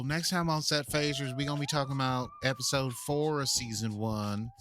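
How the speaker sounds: put-on a light southern accent. Host previewing next episode in a southern accent. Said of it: "In my southern accent".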